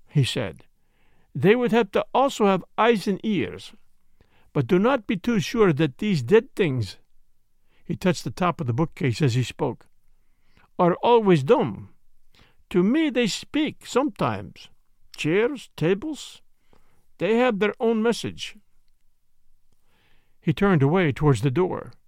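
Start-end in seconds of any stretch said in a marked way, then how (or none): 1.4-7.0 a hint of a precise, questioning Belgian sleuth; Poirot. Story figure, Belgian detective. 10.8-18.6 put-on slow, accented Belgian detective, musing; Poirot. Story figure, Belgian detective.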